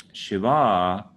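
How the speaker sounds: Shiva ending in a long, rising ah; long final a. Shown as a demonstration. Teacher showing the feminine Shiva with a long ah. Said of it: "is his wife".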